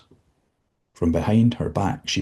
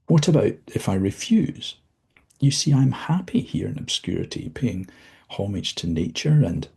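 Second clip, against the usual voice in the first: higher, nervous pushback; anxious defiance; 4 semitones higher than usual. Acted. Dozzie nervously refuses the visitor, voice raised. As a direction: defy him though scared.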